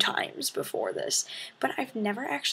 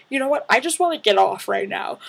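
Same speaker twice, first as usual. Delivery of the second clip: loud demand; 7 dB louder, faster than usual. Retold or imitated. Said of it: "I'm like".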